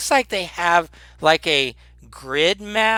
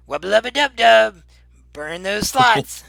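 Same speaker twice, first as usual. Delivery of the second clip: shouted catchphrase; 5 semitones higher, 5 dB louder than usual. Acted. Game master voices the spell's catchphrase, shouting it out. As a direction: holler it like a triumphant battle cry.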